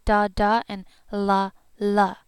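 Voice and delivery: "Da, da" then "la, la", crisp and loud; d and l separately. Shown as a demonstration. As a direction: say "Da" and "la" apart, clearly. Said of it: "It's a D and an L".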